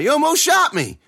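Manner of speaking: high-pitched outraged yell; shout. A narrator's reading. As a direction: shout it at the brother who fired. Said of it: "I heard Mitch shout".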